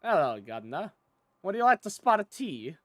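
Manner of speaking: put-on over-the-top stereotype British accent; mock British accent. Gamer hamming up the greeting in a mock British accent. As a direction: play the jolly British gent in a British accent. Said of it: "you have the racial stereotype British accents".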